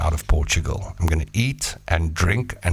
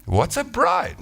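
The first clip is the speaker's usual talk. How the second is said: high confused question; higher baffled caveman; puzzled caveman; 10 semitones higher, slower than usual. Acted. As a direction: ask blankly. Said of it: "that caveman said".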